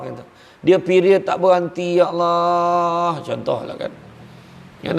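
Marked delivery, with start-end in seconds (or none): 0.6-3.2 drawn-out, half-weeping plea to God; tearful wife's prayer. Retold or imitated. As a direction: stretch each ya Allah like a mock lament. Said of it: "hari-hari menangis". (doa isteri yang merintih dan menangis, ya Allah dipanjangkan)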